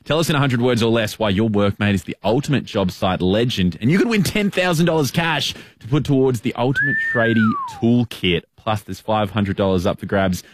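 upbeat radio promo read. Acted. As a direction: sell the competition. Live ad read.

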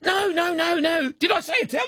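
high-pitched, laughing denial; laughing protest. Real, not acted. Caught out mixing up his accents.

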